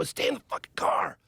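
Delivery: mock terrified whisper; scared whisper. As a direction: hiss it in terror to stay hidden. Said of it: "they're very scared".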